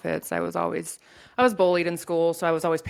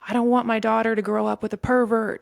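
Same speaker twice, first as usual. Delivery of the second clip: louder, higher tearful plea from mom; retold crying plea; 6 semitones higher, 5 dB louder than usual. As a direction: voice the mother's upset outburst. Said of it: "and she's crying".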